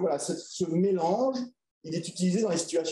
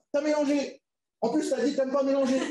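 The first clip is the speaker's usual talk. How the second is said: lightly voiced child, higher, with a laugh; teasing child; 9 semitones higher than usual. Pupil teasing her partner about mixing languages, mild childlike voice. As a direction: play the kid mocking her classmate.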